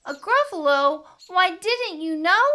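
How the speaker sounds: high, loud mock astonishment; incredulous mouse. A narrator's reading. Mouse boasting to owl, high and incredulous. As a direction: lilt up high as the surprised mouse.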